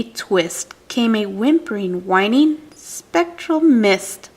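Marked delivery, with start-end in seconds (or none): 2.8-4.3 drawn out, higher eerie mist; slow ghostly lilt; spooky. A narrator's reading. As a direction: stretch it slowly like a haunting. Spooky word in ghost story.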